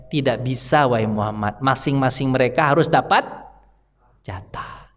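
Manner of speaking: a lightly voiced solemn refusal; stern divine answer. God's answer to Muhammad. (jawaban tegas yang lebih rendah)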